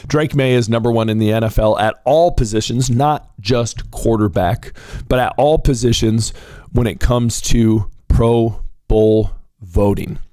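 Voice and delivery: ordinary delivery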